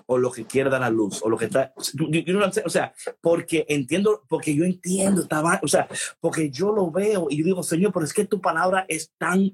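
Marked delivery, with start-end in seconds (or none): none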